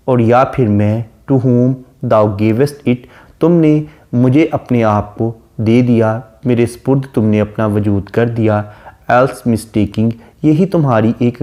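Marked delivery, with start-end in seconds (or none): 1.3-3.0 each word drawn out slowly; slow poem recitation. Shown as a demonstration. Teacher reads a sonnet line to the class, slow and solemn. 9.1-10.1 each word drawn out slowly; slow poem recitation. Shown as a demonstration. Teacher reads a sonnet line to the class, slow and solemn.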